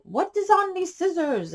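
a light mock German accent from the scissor man; old German man's accent. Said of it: "in his little accent was like".

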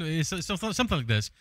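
stumbling over repeated words; stuttering with excitement. Real, not acted. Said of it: "I started stuttering".

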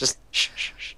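urgent whispered shush. Real, not acted. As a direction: hush him silently. Shushing partner while hiding.

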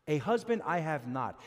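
"husband" stressed at the front, falling to a firm close; fronted-word emphasis. Shown as a demonstration. Preacher repeating how she should have said it, stress on "husband". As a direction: put the weight on "husband" first. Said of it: "That's how she should have said it".

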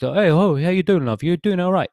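high, loud mock-Cockney greeting; imitated Cockney. Imitating the man's accent to a co-host, mock Cockney. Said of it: "a little bit of Cockney".

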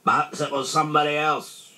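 high, innocent bear voice; bright-idea tone; helpful suggestion. A narrator's reading. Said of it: "then suggested helpfully".

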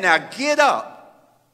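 slow, gentle divine reassurance; calm comforting voice of God. Retold or imitated. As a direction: speak it slowly, tender and sure. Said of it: "And then he said".

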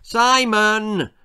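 high, loud call of his name; loud wake-up call. A narrator's reading. Mum calling to rouse him.

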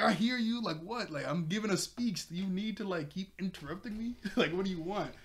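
high mock-irritated rant; exasperated complaint. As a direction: act out someone fed up with interruptions. Miko annoyed at being interrupted.

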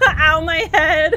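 shaky laugh. Real, not acted. After the attack.

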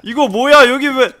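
enraged shouting curses; furious yelling. Real, not acted. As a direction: scream in frustrated rage. Furious yelling during dog attack.

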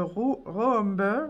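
real French-accented attempt at English; English words in a clumsy French accent; super accent English. Real, not acted. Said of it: "mon super accent English". (accent anglais approximatif)

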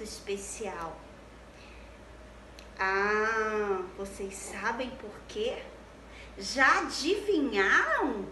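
put-on bright sing-song children's teacher; cheerful kids' show greeting; bright squeaky sing-song welcome.

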